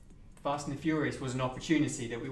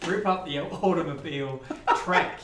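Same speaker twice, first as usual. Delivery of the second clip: put-on Australian accent; 2 semitones higher, 4 dB louder than usual. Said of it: "let's see how long you can stay Australian".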